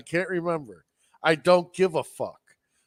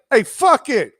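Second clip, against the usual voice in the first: loud, high devil-may-care quote; gung-ho; 9 semitones higher, 8 dB louder than usual. Retold or imitated. Podcaster voicing the fighter embracing the song, gung-ho. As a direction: imitate a fighter throwing himself into it.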